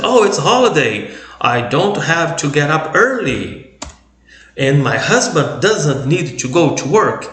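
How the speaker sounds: a hint of a happy wife on a holiday; wife cheerfully telling of a day off, mildly voiced; woman relieved. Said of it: "said by a woman".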